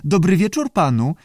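high squawky creature greeting; screechy voice. A narrator's reading. Unseen salamander greets the director, screechy. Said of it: "skrzekliwie powiedział".

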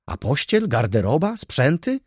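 high-pitched, dismayed list of questions; distressed cry. A narrator's reading. Baronowa asks after the missing belongings, distraught. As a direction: call out each item in rising dismay. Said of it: "zawołała pani, łamiąc ręce".

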